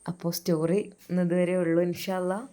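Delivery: real voice strain after sea wind; storyteller explaining her voice is worn from the beach trip. Real, not acted. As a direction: talk through a tired, changed voice. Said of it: "ശബ്ദം നല്ല രീതിയിൽ മാറിയിട്ടുണ്ട്".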